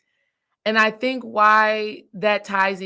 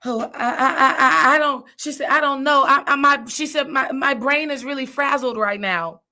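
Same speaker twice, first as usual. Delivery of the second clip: high, stammering, overwhelmed hostess; mock nervous breakdown, stuttering and high; frazzled stammer; 5 semitones higher than usual. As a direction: imitate a flustered worker tripping over her words. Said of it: "Sis was having a nervous breakdown".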